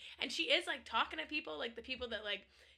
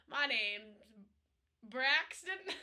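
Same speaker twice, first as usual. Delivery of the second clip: put-on New England accent; much slower than usual. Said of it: "That's where you get the New England".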